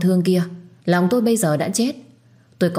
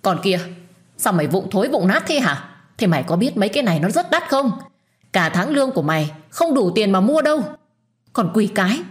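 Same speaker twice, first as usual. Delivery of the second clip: higher, pushed scolding, a mild acted yell; furious yell; 4 semitones higher than usual. Mother-in-law berating Vi over the broken bowls, angry. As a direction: tear into her, pitch climbing. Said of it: "Bà điên tiết, gào to".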